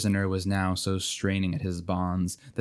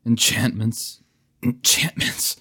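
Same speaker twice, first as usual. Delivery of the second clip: groaning; 3 semitones higher, slower than usual. Acted. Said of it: "He groaned".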